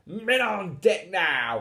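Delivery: hammed-up pirate roar; mock roar. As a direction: call the crew up like a tiny captain. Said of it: "he roared".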